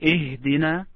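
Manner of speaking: Ihdina with an audible h; model pronunciation. Shown as a demonstration. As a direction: offer Ihdina for repeating, h fully sounded. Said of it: "say this word".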